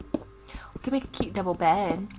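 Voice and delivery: soft dreamy whisper. Real, not acted. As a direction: whisper it to yourself. Musing on bedroom plans.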